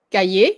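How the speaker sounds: Cahier starting with a hard K; French "ka-yay" for Cahier, C as K; hard K sound. Shown as a demonstration. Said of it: "it sounds like a K".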